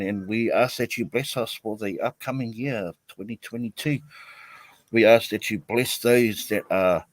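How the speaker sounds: earnest spoken prayer to open the stream. Acted. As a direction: pray aloud reverently, steady and measured. Leads an opening prayer.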